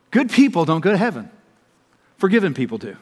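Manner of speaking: Good stressed, then forgiven punched. Shown as a demonstration. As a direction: contrast good people with forgiven people. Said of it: "Let me put it to you like this".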